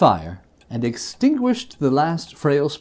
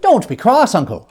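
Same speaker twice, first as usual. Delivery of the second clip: coaxing plea; 7 semitones higher, 6 dB louder than usual. A narrator's reading. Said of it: "said the nephew".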